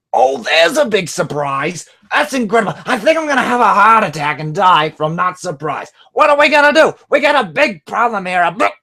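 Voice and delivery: squawky high parrot echo. Retold or imitated. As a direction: screech it back like a parrot. Parrot sarcastic rant.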